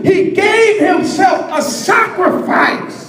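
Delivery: rising, ringing preacher's call; preaching at full force. Acted. Preacher urging the congregation to follow him, full force. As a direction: drive it home to the congregation.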